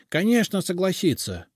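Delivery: a domovoi suddenly cheered by good news; suddenly cheerful. A narrator's reading. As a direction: perk up with sudden joy. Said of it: "вмиг повеселел домовой".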